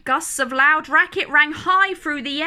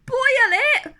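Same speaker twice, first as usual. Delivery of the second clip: high, loud shocked cry; aghast, blurting it out; gasped; 10 semitones higher, 5 dB louder than usual. A narrator's reading. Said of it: "gasped Horton".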